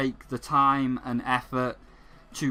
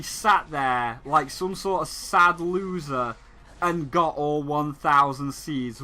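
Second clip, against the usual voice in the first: mocking taunt; 3 semitones higher than usual. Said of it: "the game points at you and is like".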